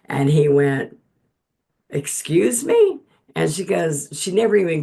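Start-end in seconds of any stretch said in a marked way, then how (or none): 1.9-3.0 high, loud and drawn-out Excuse me; a scandalized host, pitched way up; shocked excuse me. Retold or imitated. Host caught off guard by her question, shocked. Host's shocked reply, retold.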